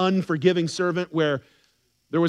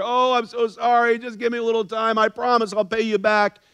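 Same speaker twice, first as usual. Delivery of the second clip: pleading debtor; 3 semitones higher than usual. Acted. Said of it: "he gives the same exact speech".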